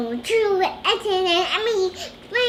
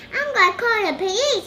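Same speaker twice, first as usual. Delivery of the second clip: mild shout; 3 semitones higher, faster than usual. Acted. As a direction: threaten like an angry owner. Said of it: "he shouted".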